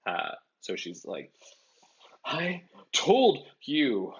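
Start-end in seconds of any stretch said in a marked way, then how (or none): 2.3-4.1 Ron voice. A narrator's reading. Ron voiced in read story.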